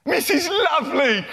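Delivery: sing-song introduction. Acted. Presenting character in show.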